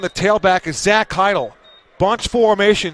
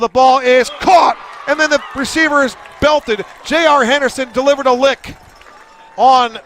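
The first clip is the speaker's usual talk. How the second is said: louder, higher call of the big hit; excited play-by-play; 4 semitones higher, 3 dB louder than usual. Real, not acted. Big hit called live.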